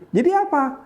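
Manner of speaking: teacher confused by the pupil; baffled teacher. Retold or imitated. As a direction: play the puzzled teacher high. Teacher voiced in story.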